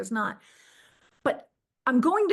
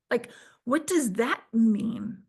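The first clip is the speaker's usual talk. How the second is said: whispered confusion; slower than usual. Retold or imitated. Confused inner thought before Goddess.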